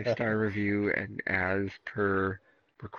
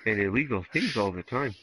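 put-on Canadian accent with lisp. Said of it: "read this as a Canadian with a lisp".

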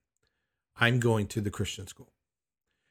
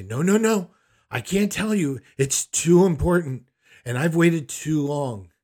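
higher, louder mock insistence; insistent mother; 4 semitones higher, 6 dB louder than usual. Mother refusing to tell her son in the car, insistently. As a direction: refuse urgently, pitched up and loud.

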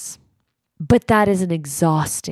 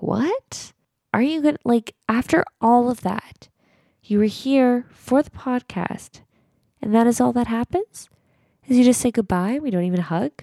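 high-pitched, acted-out protest; retold disbelief; 7 semitones higher than usual. Retelling a protest at a hugless goodbye, retold disbelief. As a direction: replay an incredulous objection, pitched up.

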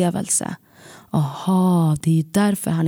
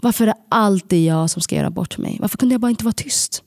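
inner scream; 4 semitones higher, faster than usual. Retold or imitated. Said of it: "På insidan skriker jag".

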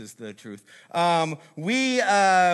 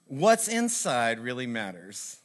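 mock segue; 3 semitones lower, slower than usual. Shown as a demonstration. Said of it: "That's my transition there".

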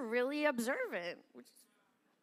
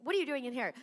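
curt scolding; faster than usual. Retold or imitated. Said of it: "there's a way to deliver it".

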